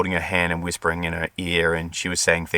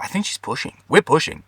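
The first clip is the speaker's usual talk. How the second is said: higher-pitched eager news; excited realisation; 8 semitones higher than usual. Retold or imitated. Midwife telling the husband the birth is starting, excited and high. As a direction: announce it like the moment has come.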